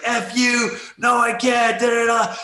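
put-on scared kid yelling back at the dad; panicked yelling kid. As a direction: shout him off in panic. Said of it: "the guy's like".

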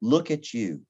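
a hint of a patient inner voice; gentle rebuke. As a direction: lovingly call him out. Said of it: "the Holy Spirit said".

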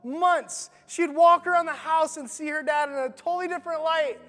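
awed storytelling. A narrator's reading. Story climax, awe.

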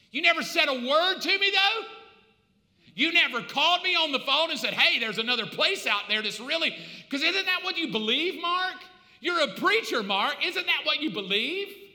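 loud reproach. Acted. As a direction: demand why he never spoke up. Dead brother Gary reproaching preacher.

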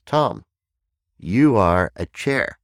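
put-on high, loud child's pronouncement; little child. Child names speaker a chair, high kid voice. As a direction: announce it like a small kid, drawn out at the end. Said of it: "this little child looks up at me".

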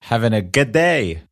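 a weak try at Aussie vowels; Australian accent. Pretend. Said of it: "this was my best Australian accent".

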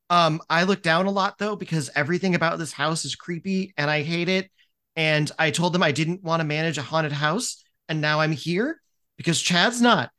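lightly voiced nervous young man, apologetic; a hint of a shaky, polite frat boy holding back swearing; meek apologetic student. Frat vice president apologizing to the coordinator, lightly nervous. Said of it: "And he's like".

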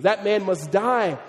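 slow, mildly angry mock verdict; furious verdict. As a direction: deliver a slow, understated furious sentence. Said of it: "David was furious".

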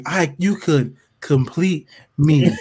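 slow, syrupy mock pleading; mock lovesick plea. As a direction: ham up the lovesick begging. Mocking Jason's letter.

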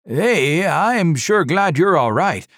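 high, loud, gushing relief; rush of words. A narrator's reading. Red-faced driver to the survivor, loud gushing rush. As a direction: babble it out in one rush. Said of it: "in a rush of words".

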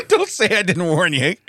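slow, laughing prospector warning; drawn-out, laughing old-timer warning. Pretend. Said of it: "I'm an old prospector".

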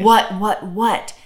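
mock-irritated, repeated replies. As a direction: retell a parent getting worn down. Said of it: "it got more incessant and more".

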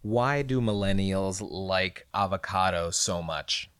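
slow, deliberate query to the phone; voice assistant command. Shown as a demonstration. Co-host asking Google Assistant, slow careful command. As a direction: speak slowly so Google understands. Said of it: "Okay, Google".

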